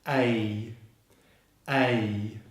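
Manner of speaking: "A" drawn out, gliding to an E sound; diphthong. Shown as a demonstration. Teacher letting learners hear both vowels, gliding "A". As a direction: glide "A" into "ee" at the end. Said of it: "Listen carefully for the E sound at the end".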